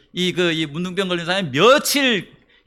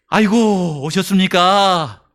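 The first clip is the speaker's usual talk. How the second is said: mock warm welcome; much slower than usual. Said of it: "이렇게 할 것 같아요?".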